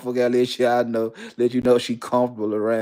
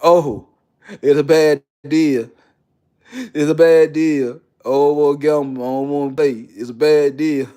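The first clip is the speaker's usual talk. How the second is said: whiny loser; 4 dB louder than usual. Retold or imitated. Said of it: "And then complain when you lose".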